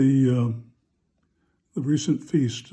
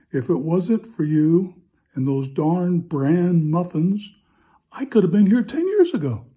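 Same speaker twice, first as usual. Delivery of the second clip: mock accusation; 3 semitones higher than usual. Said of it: "Tom glared at her, and he pointed his finger".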